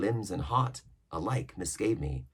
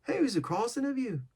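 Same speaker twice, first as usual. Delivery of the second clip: sailor voice. A narrator's reading. Israel voiced.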